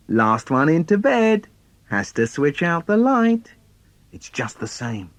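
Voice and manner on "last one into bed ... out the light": put-on eager kid's call, a bit higher and louder; a boy calls the race to his brother; calling out the challenge. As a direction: shout the rule like a dare. Children's bedtime race challenge.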